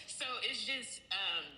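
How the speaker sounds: wired and jittery from exercise; a bit jittery and breathless, post-workout; jittery after workout. Real, not acted. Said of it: "Sorry, I'm all jittery".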